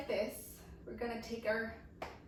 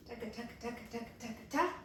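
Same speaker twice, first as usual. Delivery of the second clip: even taka patter ending on ta; rhythmic taka syllables; 4 dB quieter, much faster than usual. Shown as a demonstration. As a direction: beat out the move in light syllables. Vocalizing the waterfall dance move.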